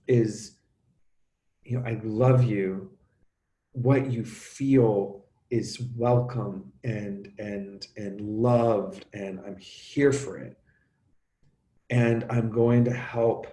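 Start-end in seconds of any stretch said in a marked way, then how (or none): 1.8-10.6 very slow, gentle reassurance; tender parent. Pretend. A parent reassuring his son that his feelings are welcome, tenderly. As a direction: soothe him, let each word land.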